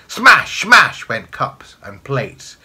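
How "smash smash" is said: loud, high bursts; explosive high exclamations; crashing smashes. A narrator's reading. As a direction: fling each word out like breaking china. Narrator acts the crockery breaking.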